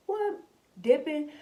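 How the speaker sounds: high, loud disbelieving What then Dipping; surprised yelp. Retold or imitated. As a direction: yelp it like a stunned kid. Kids shocked at the outing.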